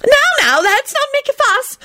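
very high, fretful little voice; anxious. A narrator's reading. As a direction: flutter in to calm a quarrel. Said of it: "Flitwick put in anxiously".

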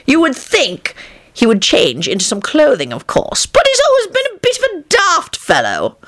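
a hint of a jovial old wizard, pleased with himself; John, boastful old man. A narrator's reading. John mocking Tony.

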